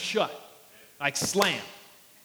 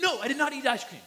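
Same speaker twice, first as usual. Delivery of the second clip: put-on child's denial; 6 semitones higher, faster than usual. Toddler insists again.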